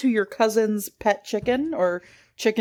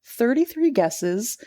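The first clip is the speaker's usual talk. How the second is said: story reading. A narrator's reading.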